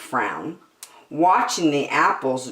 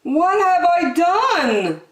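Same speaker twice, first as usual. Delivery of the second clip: sighing; 12 semitones higher than usual. Acted. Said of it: "he said with a sigh".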